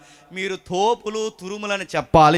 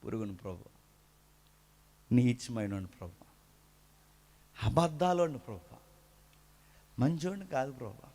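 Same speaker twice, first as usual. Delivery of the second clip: mock humble prayer; 3 semitones lower than usual. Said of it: "ఎంతో తగ్గింపు ఉన్నట్టు ప్రార్థన చేస్తున్నాడు".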